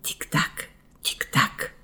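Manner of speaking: breathy whispered tick-tock, like a wall clock. A narrator's reading. Wall clock whispering to the children, whispered tick-tock. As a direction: whisper the ticking softly. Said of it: "szepcząc do wtóru dzwonom".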